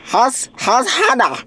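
talking through a mouth guard; slurred words around a mouth guard. Real, not acted. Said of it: "with this mouth guard in my mouth".

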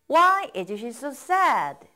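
slow, even drill pace; slow model reading. Shown as a demonstration. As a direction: say it slowly, leave room to repeat. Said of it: "따라 읽어보세요".

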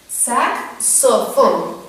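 slow "Saxofón", X sounded as k-s; hard C sound. Shown as a demonstration. Teacher shows children the Hebrew sound, "Saxofón" slow with hard k. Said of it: "el sonido como una C".

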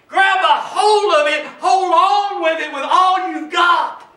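emphatic, driving exhortation; rally the congregation; preaching at full force. Real, not acted.

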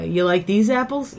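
tentative Boston accent warm-up line; lightly put-on Boston accent. Shown as a demonstration. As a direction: try easing into a Boston accent. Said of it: "I try to get into it with".

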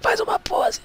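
high, pleading whisper. Real, not acted. Player whispering to her character to pose. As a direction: coax it in a hushed plea.

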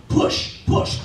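breathy whispered urging; whispered push. Retold or imitated. Doctor whispering to his mother in labour, urging push.

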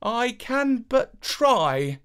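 steady yourself and accept; brave reply. A narrator's reading. Boy accepting the princess's quest, slow and brave. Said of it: "replied Avenant bravely".

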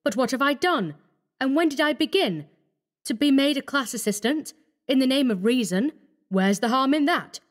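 high-pitched, protesting questions; distraught self-justifying outburst; anguished cry. A narrator's reading. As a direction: plead in rising dismay. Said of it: "he cried".

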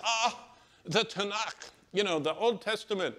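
light up like you've found a friend; elderly Jewish man delighted by the Bible reader, excited; excited old man. Retold or imitated. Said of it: "he was so excited".

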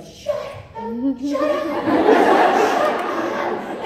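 loud, high repeated yell, acting out a rant; retold furious rant. Woman telling off her husband's client, angry yelling. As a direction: yell it over and over as if unable to stop. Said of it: "ripped into that guy".

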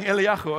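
Eliyahu with a throaty kh; phlegmy Hebrew h. Shown as a demonstration. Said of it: "should feel that you're saying".

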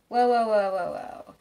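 like someone slamming on the brakes; a playful jolt of alarm that settles; mock startled whoa. Sudden Venus retrograde stop.

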